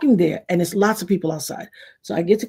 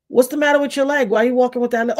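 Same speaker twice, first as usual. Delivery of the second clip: put-on higher, blunt kid's question; curious child asking; 6 semitones higher, faster than usual. Young girl questions a limping neighbor, higher curious voice. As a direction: ask innocently about the limp.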